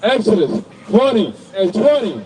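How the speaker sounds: slow, measured Bible reading; scripture reading. Acted. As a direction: read the verse out phrase by phrase. Reads scripture aloud between preaching.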